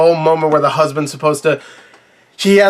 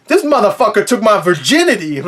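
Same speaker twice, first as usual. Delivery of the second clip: a lightly voiced mock outburst, a touch higher; impression of Melanie screaming; 4 semitones higher than usual. Reviewer mimicking the older Melanie's outburst, mock indignant. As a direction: ham up the angry ex blurting out her grievance. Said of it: "I'm doing an accurate impression".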